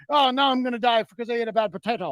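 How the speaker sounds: a lightly done, mixed-up fake Irish accent, mocking. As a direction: taunt him in a hammed-up but mild Irish brogue with a fake cackle. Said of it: "what the fuck is that?".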